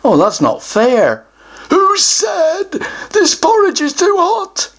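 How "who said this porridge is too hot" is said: higher, smug troll voice; a troll pleased with his trick answer. Acted. Troll teases the child with a trick answer, smug.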